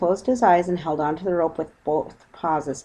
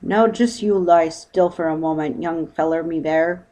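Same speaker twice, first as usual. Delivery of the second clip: boatman's voice; 4 dB louder than usual. Acted. Boatman speaks.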